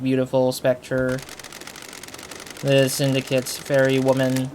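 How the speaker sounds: deliberate monotone character-bio read. Real, not acted. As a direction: read it out in a level monotone, measured pace. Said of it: "I'm reading monotone-wise".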